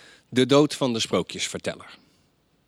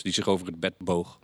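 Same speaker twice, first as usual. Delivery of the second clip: ordinary delivery, nothing marked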